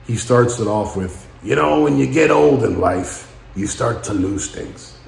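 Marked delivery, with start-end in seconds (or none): 1.4-5.0 lightly imitated movie speech opener; Al Pacino. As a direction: quote the film line with a touch of drama. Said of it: "that speech that Al Pacino gave".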